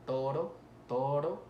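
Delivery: toro with one light tongue tap on the R; single tapped R. Shown as a demonstration. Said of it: "por ejemplo, la primera R".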